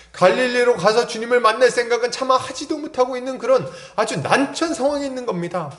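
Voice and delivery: impassioned sermon delivery, pitch held high; fervent preaching. Acted. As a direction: press the congregation with mounting urgency. Preacher builds in fervour.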